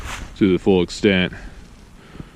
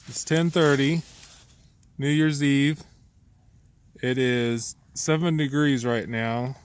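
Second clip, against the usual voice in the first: quiet; 2 semitones higher, 6 dB quieter, slower than usual. Real, not acted. Night in cold hammock.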